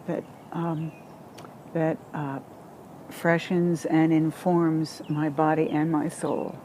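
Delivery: quietly crying, breath catching; tearful, voice breaking softly; catching breath midword. Real, not acted. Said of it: "I'm sorry I'm crying right now".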